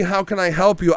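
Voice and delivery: lightly chirpy polite voice; mock polite greeting. Mocking the husband's calm greeting again, mildly chirpy. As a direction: toss it off falsely polite. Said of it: "it wouldn't be".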